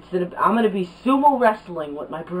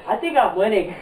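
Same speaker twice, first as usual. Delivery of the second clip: laughing. Real, not acted. Laughing during wrestling.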